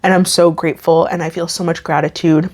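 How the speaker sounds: getting emotional. Real, not acted. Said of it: "why am I so emotional?".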